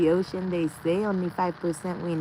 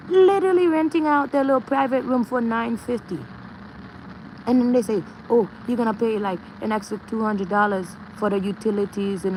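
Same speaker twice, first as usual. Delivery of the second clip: indignant rant; 4 semitones higher than usual. Real, not acted. Ranting about rent prices.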